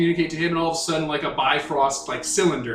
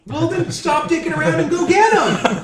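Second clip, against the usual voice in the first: loud, exasperated, higher; exasperated shout; 11 semitones higher, 5 dB louder than usual. Real, not acted. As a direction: yell at him to hurry. GM urges player loudly.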